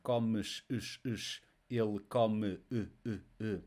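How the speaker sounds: "comes" and "come" with closed final E, the ending repeated alone; closed vowel. Shown as a demonstration. Teacher drilling the vowel, closed endings in "comes" and "come". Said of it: "This is a closed vowel sound".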